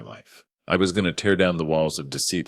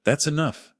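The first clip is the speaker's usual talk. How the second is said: much higher, stern booming voice; 11 semitones higher than usual. A narrator's reading. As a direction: cut them off with a boom. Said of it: "Ryan's voice boomed".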